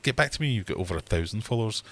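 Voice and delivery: fast, dismissive brush-off; quick, condescending put-down. Retold or imitated. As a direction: toss it off like a snooty rep. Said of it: "I could hear it in her voice".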